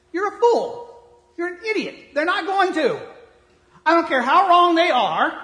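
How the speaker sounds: loud, high preaching rebuke; emphatic shout. Real, not acted. Preacher scolding his listeners, shouting loud and high. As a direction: thunder it at the congregation.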